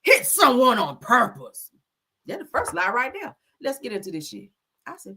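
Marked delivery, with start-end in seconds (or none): 0.0-1.7 slow, whiny fake sob; hammed-up tearful denial; mocking the runner's crying. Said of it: "Says that".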